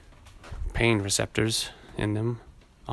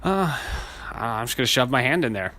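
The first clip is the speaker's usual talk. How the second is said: mock doctor; 3 semitones higher than usual. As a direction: play a blunt doctor, hammed up. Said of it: "he's gonna go".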